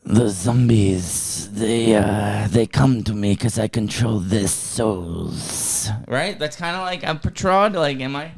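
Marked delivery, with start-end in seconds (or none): 0.1-5.9 Patrude voice. Acted. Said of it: "He just kinda talks softly".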